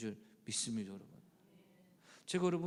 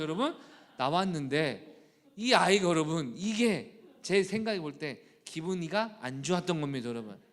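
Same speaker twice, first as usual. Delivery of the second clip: normal talking voice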